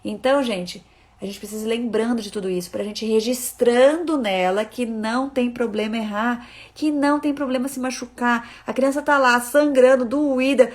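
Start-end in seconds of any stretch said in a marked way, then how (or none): none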